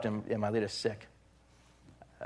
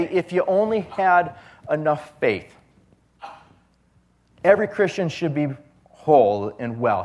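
mocking false teaching; 4 semitones higher, 4 dB louder than usual.

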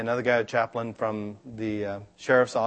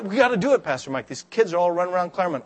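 urgent plea; 5 semitones higher, faster than usual. Retold or imitated. Minister urging Pastor Mike about the kids. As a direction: press the pastor to act now.

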